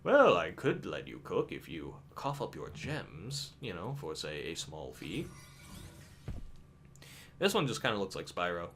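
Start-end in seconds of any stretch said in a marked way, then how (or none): 0.0-5.3 greedy merchant voice. Pretend. Voicing a greedy shop character.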